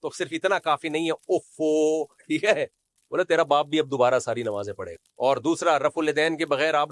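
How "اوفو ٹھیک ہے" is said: stretched imitation of regret; mock dismay. Preacher saying mere regret is not enough, mock dismay. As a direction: mimic a theatrical "oops". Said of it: "اوفو کر کے acting".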